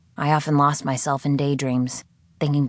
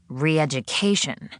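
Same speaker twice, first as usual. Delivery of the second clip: slow, disdainful; scornful; slower than usual. Acted. Sydney naming the captor's plan, slow scorn. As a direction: say it like a dirty word. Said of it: "Your tone makes it sound like a bad thing".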